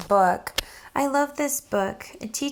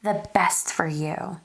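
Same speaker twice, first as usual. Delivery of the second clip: lilting, sing-song rhyming read-aloud; reading a picture book aloud; 2 semitones lower than usual. Acted. Teacher reading a rhyming book to children, sing-song storytelling. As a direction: read the rhymes to a class of children, bouncing along.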